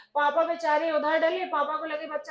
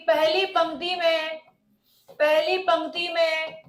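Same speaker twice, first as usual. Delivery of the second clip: classroom dictation; 6 dB louder than usual. Real, not acted. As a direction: dictate for note-takers, with long pauses. Teacher dictating a definition to class.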